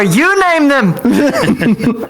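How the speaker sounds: high-pitched, drawn-out holler; yelling across bar. Acted. Player's character heckles across the bar, playful high yell. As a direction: call it out high, stretching the words through laughter. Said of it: "I yell out across the bar".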